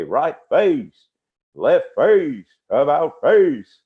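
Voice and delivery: drill commands. Retold or imitated. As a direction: snap out the orders like a drill instructor. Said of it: "And then he would say".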